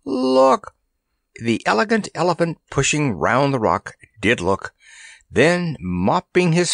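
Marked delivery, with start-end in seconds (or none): 0.0-0.8 very high, urgent call; excited shout. A narrator's reading. Randy calling Kabumpo to look at the desert, excited shout. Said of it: "he shouted vociferously".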